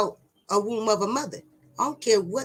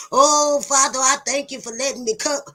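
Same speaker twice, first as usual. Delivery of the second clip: higher, louder praying voice; mock prayer; 3 semitones higher, 5 dB louder than usual. Mocking churchgoers praying to the Father, higher and louder. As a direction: ham up a pious prayer. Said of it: "mocking a prayer".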